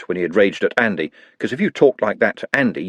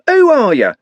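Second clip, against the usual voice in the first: even higher furious yell; 13 semitones higher, 7 dB louder than usual. A narrator's reading. Trev rounding on the others, screaming louder. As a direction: pitch climbs higher, louder. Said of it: "screamed Trev".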